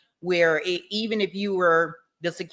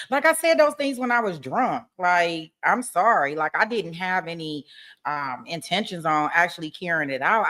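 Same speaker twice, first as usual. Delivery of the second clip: mock defendant excuse; 3 semitones higher than usual. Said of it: "I probably would have believed that better".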